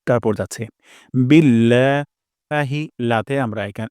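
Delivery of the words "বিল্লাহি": বিল্লাহি with the la stretched slowly; long la in বিল্লাহি. Shown as a demonstration. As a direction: hold the লা in বিল্লাহি. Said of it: "এক আলিফ পরিমাণ টান দিব".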